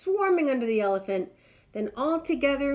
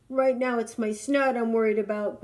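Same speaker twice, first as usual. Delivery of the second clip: groaned; 5 dB louder than usual. Acted. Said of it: "groaned the rhino".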